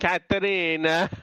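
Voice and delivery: rolling the name Caterina the Italian way; Italian-sounding name. Retold or imitated. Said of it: "hard to say an A name without it turning Italian".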